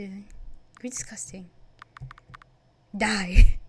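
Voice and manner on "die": sudden furious shout. Acted. Player yells at the villain in fury. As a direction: spit out a furious one-word yell.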